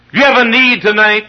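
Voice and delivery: sudden high, loud preacher's cry; fervent pulpit shout; preaching shout. Real, not acted. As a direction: burst out to the congregation. Preacher bursts out.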